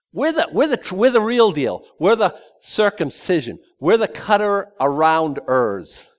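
high, smug mocking of the boasters. Preacher mocking the boasting circumcision party, smug and high. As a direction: puff it up like a proud zealot.

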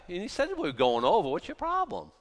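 hurried, acted-out panic; mock panic. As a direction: complain as a panicking disciple. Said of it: "they're panicking".

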